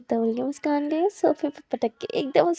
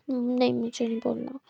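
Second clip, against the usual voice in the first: whisper; 6 dB quieter than usual. Acted. Shy refusal in a love story.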